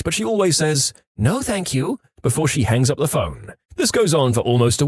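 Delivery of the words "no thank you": polite refusal. Retold or imitated. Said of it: "She's very polite".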